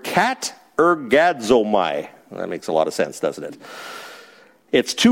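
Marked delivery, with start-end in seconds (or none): 0.0-2.1 katergazomai spelled out slowly, syllable by syllable; Greek word katergazomai. Shown as a demonstration. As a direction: give them the Greek katergazomai, slow and clear. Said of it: "I'm gonna give you the Greek word".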